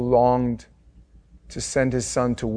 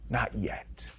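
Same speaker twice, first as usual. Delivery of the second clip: hushed echo; 2 semitones lower, 12 dB quieter than usual. Acted. Gladiator line echoed.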